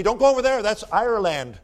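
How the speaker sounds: loud, high mock warning shout; mock Scottish warning. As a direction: call it out like a scandalised Scot.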